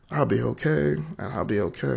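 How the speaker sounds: real catch of emotion while retelling; trying to hold back tears; close to tears. Real, not acted. Telling his friend he'll be okay, close to tears. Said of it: "it's gonna make me cry".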